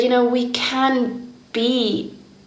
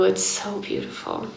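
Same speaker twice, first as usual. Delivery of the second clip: much softer, almost under her breath; soft and hushed; 2 semitones lower, 9 dB quieter than usual. Real, not acted. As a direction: let it fall quietly, moved. Quiet reflection on sisterhood.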